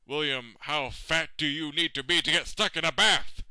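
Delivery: building to a loud finish; self-mocking rant. President taunting himself over the bathtub, mocking.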